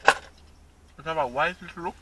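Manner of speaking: slow, talking around ice; mumbled around ice cubes; ice in mouth. Real, not acted. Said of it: "Sorry, my ice in my mouth".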